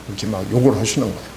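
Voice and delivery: quick mock muttering to oneself; grumbling to himself. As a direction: rattle it off like a man cursing under his breath. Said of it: "혼자 시부렁시부렁".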